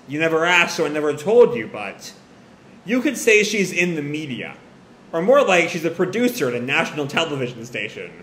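matter-of-fact, understated answer; deadpan explaining. Acted. Erika explains her mother's job, mildly deadpan. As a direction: explain it plainly, without fuss. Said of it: "looks sort of deadpan, explains".

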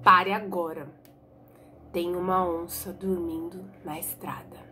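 low unvoiced urgent whisper. Blind boy whispering to Tonho about the sleeping jaguar. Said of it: "Dalmo parou e falou assim".

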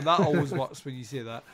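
usual speaking voice

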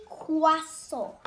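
gentle demo of "Croissant" for a little sister; croissant, French style. Shown as a demonstration. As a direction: say "Croissant" as kwa-SON with the French vowel and no final t. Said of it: "Can you say that, Fifi?".

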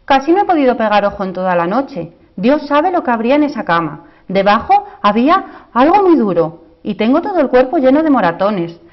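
high, loud complaining princess voice; cartoon princess. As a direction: whine like a spoiled, bruised princess. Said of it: "dijo la princesa".

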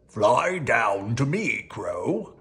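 slow, silky tiger voice; sweet coaxing tiger. Acted. The tiger sweet-talks the crow down, coaxing. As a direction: coax the crow with false sweetness. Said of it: "coaxed the tiger sweetly".

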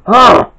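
loud, high groan; short acted moan; exasperated moan. A narrator's reading. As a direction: let out a fed-up moan. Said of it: "moaned Jay".

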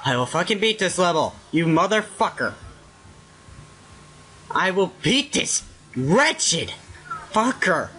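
very low, quiet, quick vow; subdued vow. Real, not acted. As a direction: say it low and contained after apologising. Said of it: "Sorry about that".

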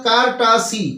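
কার-টা-সি slowly, each syllable distinct; teacher's careful three-syllable কার-টা-সি. Shown as a demonstration. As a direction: say কার্টাসি slowly in three measured parts. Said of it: "একে সি লেভেলে ভাঙলেই হবে".

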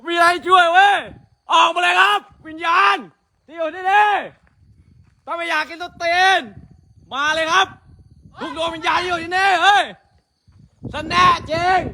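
challenging shout into the dark; calling out. Real, not acted. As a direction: call the ghosts out boldly. Calling out to the ghosts.

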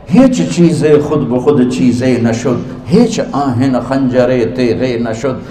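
slow, measured Persian verse recital; slow reverent recital of Persian verse; poetry recitation. Shown as a demonstration. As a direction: recite the couplets slowly, like poetry. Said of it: "मेरे शायर का कहना है".

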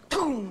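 imitated boom. Shown as a demonstration. Imitates car noise as clue.

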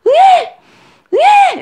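loud, very high newborn wail; imitated baby cry. Shown as a demonstration. Demonstrating a baby too upset to feed, loud high wailing. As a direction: wail shrilly like a crying newborn. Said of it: "이렇게 울고 있는데".

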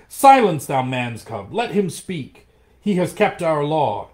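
a pack yelling over each other; yells. Acted. Wolves shout down Mowgli at the council, loud yells. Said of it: "There were yells of".

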